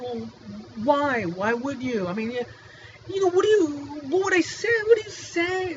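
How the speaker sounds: mock baffled stammer, rising up; flustered high reply. Retelling his flustered reply to doctor.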